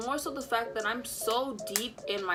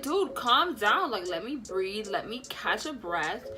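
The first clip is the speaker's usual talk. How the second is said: exasperated. Retold or imitated. She pushes back on panicking boyfriend.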